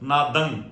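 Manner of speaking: ਨਾਦੰ with straight tongue striking the palate. Shown as a demonstration. Teacher showing pure pronunciation, ਨਾਦੰ closed nasally on the palate. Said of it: "ਜੇ ਇਸ ਤਰ੍ਹਾਂ ਨਹੀਂ ਬੋਲਾਂਗੇ ਤਾਂ ਸ਼ੁੱਧ ਉਚਾਰਨ ਨਹੀਂ".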